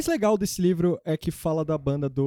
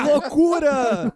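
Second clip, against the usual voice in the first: excited exclaiming; 10 semitones higher, 5 dB louder, much slower than usual. Retold or imitated. Friend retold exclaiming.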